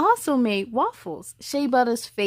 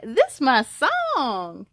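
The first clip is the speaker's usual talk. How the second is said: drawn out; much slower than usual. Acted. Girl's favorite song playing.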